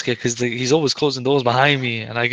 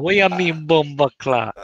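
put-on Jamaican accent; 3 semitones higher, slower than usual. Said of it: "if I had a Jamaican accent".

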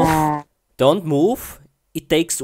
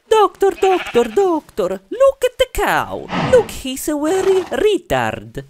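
much higher, louder panicked calling; frantic high caller; 12 semitones higher, 4 dB louder than usual. Acted. Player role-playing an owner calling the doctor about his cow. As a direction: yell for the doctor in a squeaky mock panic.

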